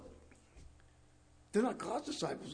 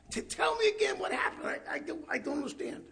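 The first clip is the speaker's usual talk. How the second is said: mock incredulous Pharisee; 10 semitones higher than usual. Mocking the Pharisees' disbelief.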